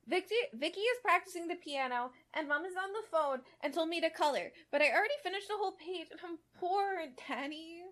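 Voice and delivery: put-on whiny little girl. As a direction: whine like a bored little girl to her dad. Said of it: "Charlotte whined into his ear".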